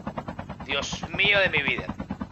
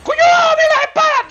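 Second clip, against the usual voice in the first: high, loud amazed yell; excited shout; 10 dB louder than usual. Real, not acted. Gamer screaming with delight at the sword effect.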